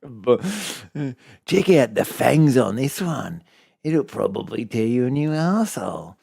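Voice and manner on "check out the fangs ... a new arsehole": mock Australian accent. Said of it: "fake Australian accent".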